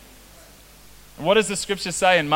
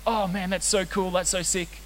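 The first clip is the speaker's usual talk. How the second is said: imitating an impressed teenage lad, higher; lightly voiced youth saying how cool it is; a hint of an awed teenager; teenage slang talk; 4 semitones higher than usual. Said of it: "this is how they talk".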